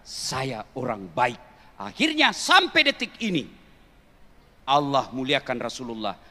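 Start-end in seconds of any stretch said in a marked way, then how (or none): 0.0-1.4 slow, soft, quiet; calm dignity. Acted. The Prophet answering insults calmly, slow and soft. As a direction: say it slowly and gently with quiet dignity. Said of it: "dia tunjukkan".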